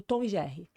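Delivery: "Tom e Jerry" with nasal Tom; Brazilian pronunciation. Shown as a demonstration. Citing the cartoon as example, Brazilian "Tom e Jerry". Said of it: "por exemplo".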